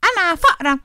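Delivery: shy little mouse. Acted. Shy mouse introduces herself.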